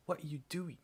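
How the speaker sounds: whispered, high, puzzled. Real, not acted. Whispering to her cat Kiwi, high and puzzled. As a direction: hush it at the cat, baffled. Cat doing something odd.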